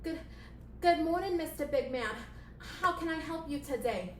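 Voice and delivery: high-pitched, eager puppet assistant; scurry in flustered, high and polite; high little servile voice. Acted. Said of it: "playing the assistant character".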